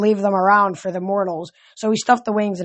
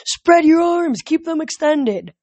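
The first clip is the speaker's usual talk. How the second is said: high-pitched shouted instruction from afar; urgent yell; 8 semitones higher, 3 dB louder, slower than usual. A narrator's reading. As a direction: call it out loud and high, stretching the last words. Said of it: "Annabeth yelled from somewhere above me".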